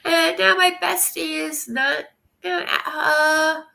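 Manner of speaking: real tears catching the words; crying. Real, not acted. Streamer tells chat about her sick friend, crying. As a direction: voice breaking into tears mid-sentence. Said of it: "Right now I'm crying ugly".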